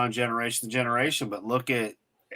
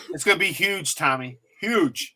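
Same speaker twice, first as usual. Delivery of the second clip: Trump; 4 semitones higher than usual. Acted. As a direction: hype it up as a lightly mimicked politician. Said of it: "a clip of Trump saying".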